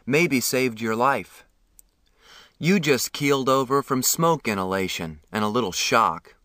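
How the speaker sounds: a calm, kindly man, voiced lightly; lightly voiced ambulance man. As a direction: reassure the boy gently.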